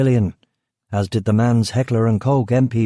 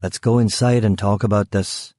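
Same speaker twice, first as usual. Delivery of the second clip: menacing North Belfast. Acted. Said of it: "in his normal North Belfast burr".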